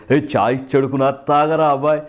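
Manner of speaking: lightly voiced film-star sing-song; a quick taste of a star impression; Chiranjeevi. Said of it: "Chiranjeevi గారు already".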